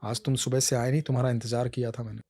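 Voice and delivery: Krishna tells his devotee how he waited; gentle Krishna. Acted. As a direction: soothe the hurt devotee.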